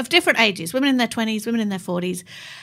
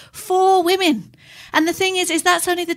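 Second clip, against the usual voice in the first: impassioned outrage; 8 semitones higher than usual. Real, not acted. Outraged host repeats the toll.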